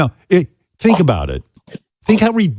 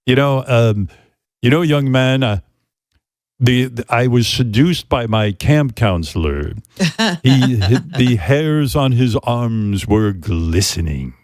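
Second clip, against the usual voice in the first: lightly voiced Steve Nowicki; slower than usual. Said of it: "Steve Nowicki was, uh, going wild".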